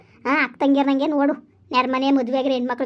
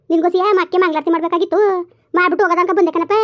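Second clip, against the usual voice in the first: loud, raised scolding at her son; angry scolding; 4 semitones higher, 5 dB louder than usual. Acted. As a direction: tear into him from the first word. Mother scolding son in anger. (ಮಗನ ಮೇಲೆ ಜೋರಾಗಿ ಕೋಪದಿಂದ ಬೈಯುವುದು)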